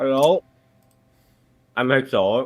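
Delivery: talking with mouth full. A guest answers the host's request to introduce themselves, talking with mouth full. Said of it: "I got some pear in my mouth right now".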